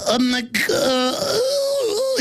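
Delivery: very high, dragged-out mock moan; mocking Facebook guy. Facebook guy talking, mimicked high moaning. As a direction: imitate him slowly dissolving into a moan. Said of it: "he makes a little".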